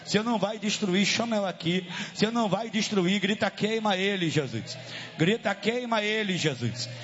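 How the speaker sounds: forceful revival preaching; fiery exorcism sermon. Real, not acted.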